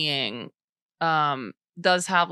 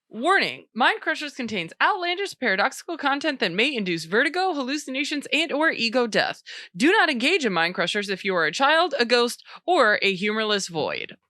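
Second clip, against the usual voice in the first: announcer voice; 5 semitones higher than usual. Acted. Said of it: "It's my announcer voice".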